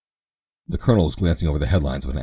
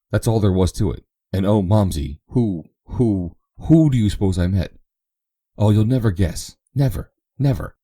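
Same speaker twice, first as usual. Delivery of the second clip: put-on high, breathless excited chatter of a giddy girl; excited young girl; 4 semitones higher, 4 dB louder than usual. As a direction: bubble over like a girl home for Christmas. Excited girl Eva rattling on.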